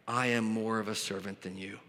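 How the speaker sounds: low, soft, reluctant admission; humble and uncomfortable, kept down low; Paul. Acted. Preacher voices Paul uneasy comparing himself, humble and hushed. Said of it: "the humility and the discomfort that Paul would ever have".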